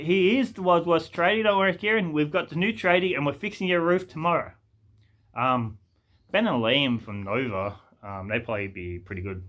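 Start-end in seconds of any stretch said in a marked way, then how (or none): 0.0-4.5 raised-pitch TV prank reveal; mock host reassuring the prank victim; imitated hidden-camera host. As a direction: present the big reveal like a show host. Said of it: "hidden camera show hosts".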